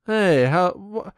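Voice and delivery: mock puzzled bathroom guy. Guy in a public restroom, puzzled by the blue water, high mock bewilderment. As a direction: play a guy baffled at fresh blue water.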